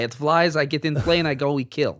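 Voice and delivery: put-on Russian accent. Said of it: "doing Russian accents".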